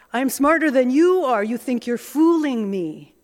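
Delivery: smug scorn. Retold or imitated. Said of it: "Do you hear this?".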